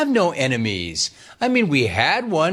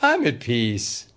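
serene Gino quote; 2 semitones lower than usual. Retold or imitated. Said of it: "expect Gino to say".

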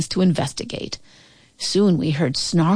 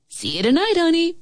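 high, lilting call with little added volume; 11 semitones higher than usual. A narrator's reading. Dad leaving for work calls to his child, high sing-out call. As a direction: call it out in a raised pitch. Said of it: "he called out".

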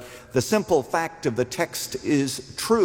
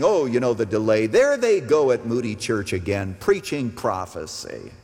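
mock scoffer. Preacher voices scoffers complaining about the delay, mildly mocking. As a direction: put on a mildly scornful doubter. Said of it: "the scoffers, rather than saying".

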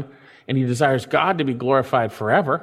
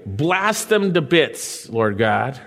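mock vengeful; slower than usual. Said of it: "He doesn't say".

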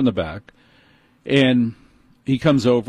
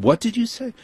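much higher, disbelieving; high incredulous question; 12 semitones higher than usual. Retold or imitated. Customer asks the manager in disbelief, voice jumping high. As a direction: ask it in shock, voice jumping up. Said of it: "I said".

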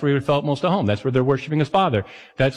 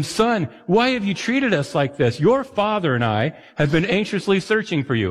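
scolding mother's tone; 4 semitones higher than usual. Retold or imitated. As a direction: let a hint of scolding mom through. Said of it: "she probably said it with that tone".

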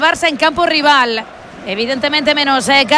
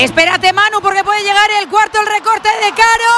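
rising excitement; 5 semitones higher than usual. Real, not acted. Commentator cuts in, chance coming.

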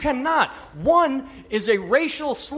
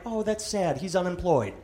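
pitying aside; 6 dB quieter than usual. Retold or imitated. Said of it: "looking at me like".

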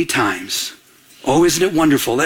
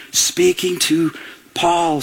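usual speaking voice

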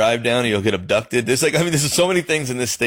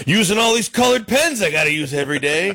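mock complaining wife; 10 semitones higher than usual. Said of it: "And she's like".

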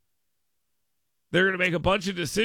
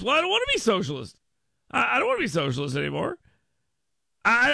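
fast, higher, flustered everyman protesting; mocking America's voice; 7 semitones higher than usual. Host mocks American voters recoiling from socialism, flustered and fast. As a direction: play the alarmed voter backing away.

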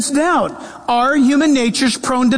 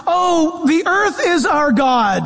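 higher, proclaimed shout of a nature worshipper; mock proclamation; 4 semitones higher, slower than usual. Pastor pretending to announce earth worship, mock shout. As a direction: announce it grandly, tongue in cheek. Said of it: "if I were to announce".

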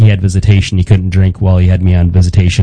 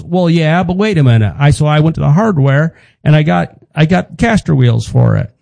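higher dad voice, proud of the fix; imitating dad; 5 semitones higher than usual. Son imitating his dad's wheel idea, higher and proud. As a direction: pitch the caster wheels as a clever idea.

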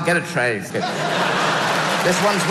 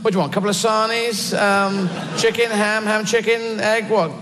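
a higher, chirpy mock minion taking orders; cheeky errand runner; 6 semitones higher than usual. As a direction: play a lackey fetching sandwiches. Mock canteen errand to Vader.

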